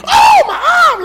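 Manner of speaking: put-on very high, loud whine of a hurt kid; child wails to mama as if the arm will fall off, very high; mock crying kid. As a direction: ham up the wailing child. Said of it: "You start crying like you".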